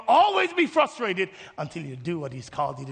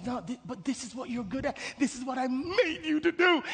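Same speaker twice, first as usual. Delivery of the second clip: insistent prompting; 4 semitones higher, 4 dB quieter than usual. Acted. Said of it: "he whispers directly".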